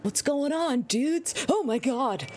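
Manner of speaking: a hint of Lofane, confused; impression of Lofane. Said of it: "That's my impression of you".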